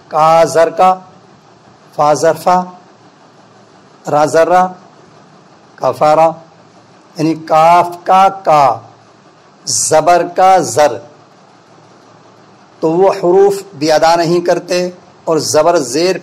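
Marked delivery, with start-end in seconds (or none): 0.1-11.0 rushed teacher's spelling-out, letters blurred; quick sloppy spelling demo; hasty wrong spelling drill. Shown as a demonstration. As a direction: rattle off the letters carelessly, like a hurried teacher. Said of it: "جیسے میں آپ کو سمجھاؤں کہ استاد کیسے ہیجے کراتے ہیں".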